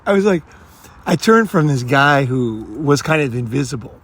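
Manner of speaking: usual speaking voice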